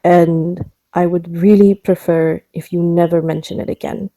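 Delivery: lightly put-on mashup of accents; Tara. Tara asking Japsor never to mention her heritage, mixed-accent character voice. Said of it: "a terrible mashup of multiple accents".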